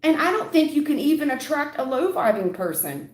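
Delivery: worked-up tough-love rant; heated lecture. Real, not acted. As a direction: really lay into her, voice up. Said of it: "And I'm not trying to yell at you".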